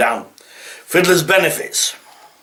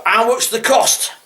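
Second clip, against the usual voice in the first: mock incredulous; 5 semitones higher than usual. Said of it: "English people that are saying this".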